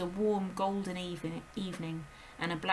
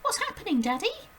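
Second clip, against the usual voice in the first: put-on high, urgent little girl's voice; a startled child calling out; high girl's cry; Matilda crying out; 14 semitones higher, 6 dB louder than usual. A narrator's reading. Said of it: "she cried".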